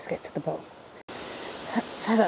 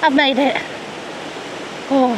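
triumphant; 5 semitones higher than usual. Real, not acted. Triumph reaching the falls.

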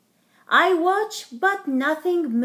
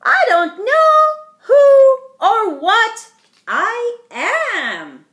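confused; 9 semitones higher, 13 dB louder, slower than usual. A narrator's reading. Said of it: "a mixed up day".

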